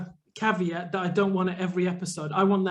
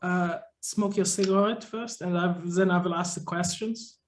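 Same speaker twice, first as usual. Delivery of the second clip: a hint of German, slowed and hesitant; German accent. A mock therapist greets his patient in a light German accent. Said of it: "you're gonna do a German voice".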